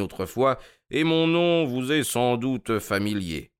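a hint of breezy superiority; Holmes, lightly amused. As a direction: explain it with easy nonchalance.

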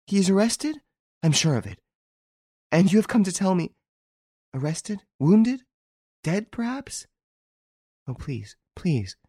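high, breathless panic; terrified, begging for news; frantic stammering. A narrator's reading.

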